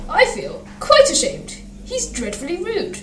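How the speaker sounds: high-pitched scandalised echo; twittering coach. A narrator's reading. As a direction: answer as a fussy coach, pitched well up. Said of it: "They twitted each other".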